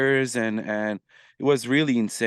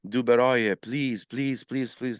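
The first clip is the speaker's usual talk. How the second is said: mock pleading; slower than usual. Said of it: "inbox was flooded with messages".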